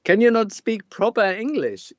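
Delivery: rude landlady. Retold or imitated. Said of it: "at some point she said".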